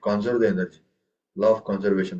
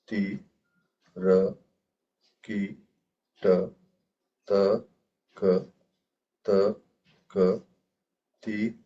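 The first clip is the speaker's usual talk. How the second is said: 1 spelling out syllables; 3 semitones lower, slower than usual. Shown as a demonstration. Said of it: "let me rewrite down this phrase".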